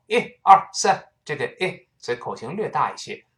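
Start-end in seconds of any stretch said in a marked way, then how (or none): 0.1-1.1 报数；像报数一样短促有力地喊出“一、二、三”；音调抬高、响亮地报数；报数式的短促喊法. Shown as a demonstration. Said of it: "就像我们报数的时候".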